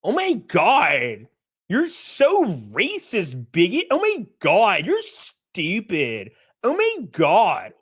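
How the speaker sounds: mock valley girl whine, slow and drawn out; hammed-up SoCal valley girl, lightly voiced; a hint of a drawn-out valley girl rant; valley girl impression. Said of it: "He sounds like a SoCal valley girl when he gets mad".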